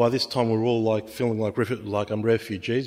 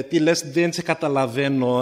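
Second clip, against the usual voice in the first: mock innocent, feigning no understanding; playing dumb; 3 semitones higher, 4 dB louder than usual. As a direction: act like you don't understand a word. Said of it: "so he played dumb".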